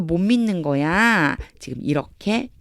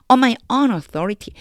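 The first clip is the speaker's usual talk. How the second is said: slow reading; 6 semitones higher, 3 dB louder, much slower than usual. Shown as a demonstration. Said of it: "뒤에까지 볼게요".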